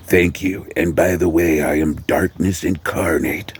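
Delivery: lightly voiced vampire, slowing to the end; a touch of mock-solemn vampire. Vampire introduces himself to civilian.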